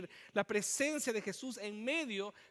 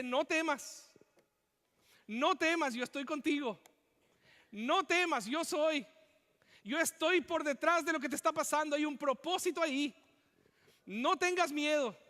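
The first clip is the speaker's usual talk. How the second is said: comforting shout; 5 semitones higher than usual. Retold or imitated. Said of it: "te dice".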